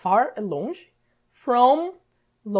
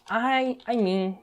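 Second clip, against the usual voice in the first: slow example; 3 semitones higher, slower than usual. Shown as a demonstration. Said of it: "Quero dizer".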